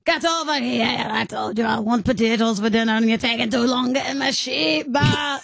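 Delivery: put-on fuming old Irish farmer; Irish farmer accent. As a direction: shout at the dog in an Irish brogue. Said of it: "You're an old Irish farmer".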